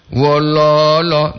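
Wololo, slow with every O long; drawn-out Wololo. Shown as a demonstration. Host reading out a greeting, slowly stretching each O in Wololo. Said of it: "itu dua O".

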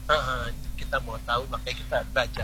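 speaking up. Real, not acted. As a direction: say it out so it carries. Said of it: "Suaranya makin hilang".

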